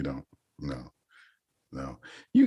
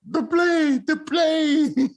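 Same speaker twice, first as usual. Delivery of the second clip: much higher, loud piping call; Tattoo impression; 4 dB louder, much slower than usual. Imitating the Fantasy Island sidekick, high piping call. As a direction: shout it like the little man on the island. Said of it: "That was my man. Tito".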